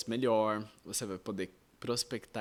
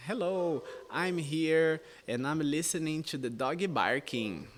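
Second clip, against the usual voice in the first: slow, stilted textbook English with a light foreign accent; stiff textbook English; 5 semitones higher, slower than usual. Shown as a demonstration. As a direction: read it out like a stiff learner. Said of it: "não estaria ok pra um americano falar assim". (inglês de livro, lento e travado)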